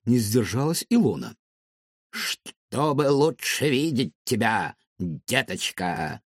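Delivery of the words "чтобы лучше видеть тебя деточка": put-on slow, creepy robot purring at a child; a menacing machine drawing out its words; sinister robot voice. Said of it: "сказал робот".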